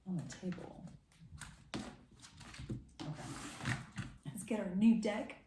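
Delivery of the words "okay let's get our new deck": talking while chewing gum; words round a wad of gum. Real, not acted. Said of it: "I just realized I have gum in my mouth".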